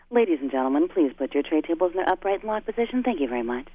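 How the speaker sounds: polished cabin announcement voice; formal flight attendant. Shown as a demonstration. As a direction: read it like a stiff in-flight announcement. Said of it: "you'd be like".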